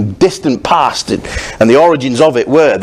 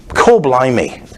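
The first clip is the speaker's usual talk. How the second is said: "core blimey" in a Cockney accent; Cockney exclamation; slower than usual. Shown as a demonstration. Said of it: "Cockney thing".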